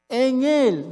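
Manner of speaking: single out en Él as the key words; stress on en Él. Shown as a demonstration. Preacher pulls out en Él from the verse, stressed. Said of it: "En Él es una palabra tan grande".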